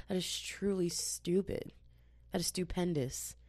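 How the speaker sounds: whispered put-down; whispered aside. Real, not acted. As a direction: lean in and whisper it.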